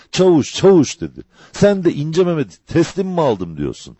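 high, forceful reproach; indignant challenge. Acted. Woman leaping up at the sergeant, high and indignant. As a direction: burst out and challenge him, pitch jumping up.

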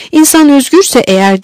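understated narrated exclamation; mild exclamation. A narrator's reading. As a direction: proclaim it with a touch of a cry. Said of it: "diye haykırdı onbaşı".

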